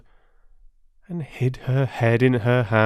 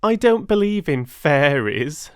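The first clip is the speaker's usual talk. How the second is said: put-on louder teasing boy; mocking boy; 5 semitones higher, 5 dB louder than usual. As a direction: say it with a jeer. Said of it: "and laughed".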